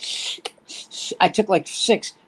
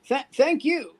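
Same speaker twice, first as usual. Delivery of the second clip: slow, stiff robot voice; a machine thanking the crowd; robot comic; 4 semitones higher, slower than usual. Retold or imitated. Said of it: "made up to look like a robot".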